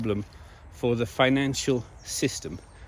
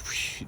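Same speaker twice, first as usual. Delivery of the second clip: whoosh; 9 dB quieter than usual. Shown as a demonstration. Imitates receipts flying out.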